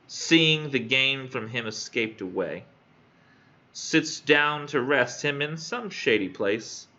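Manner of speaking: slow, measured verse reading; poem reading. Acted. Student reading a sonnet to classmates, measured recital. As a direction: read each line out slowly with stretched stresses.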